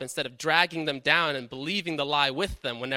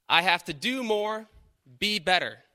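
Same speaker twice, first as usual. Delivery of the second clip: quoted lie; 4 semitones higher than usual. Retold or imitated. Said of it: "here's some lies that I hear".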